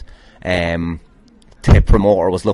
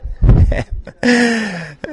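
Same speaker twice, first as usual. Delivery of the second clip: big laugh. Real, not acted. Laughs at own self-mockery.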